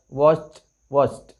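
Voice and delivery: वॉच्ड as one syllable ending in cht. Shown as a demonstration. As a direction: close वॉच्ड on a crisp t. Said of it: "इथे पण ट उच्चारायला पाहिजे".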